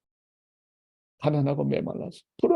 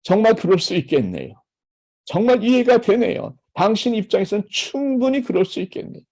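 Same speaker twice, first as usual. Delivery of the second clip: sincere empathy; 5 semitones higher than usual. Shown as a demonstration. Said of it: "그러니까".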